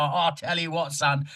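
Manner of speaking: put-on Cockney geezer talk; thick Cockney. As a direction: send up badly written Cockney dialogue. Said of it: "It's very Cockney".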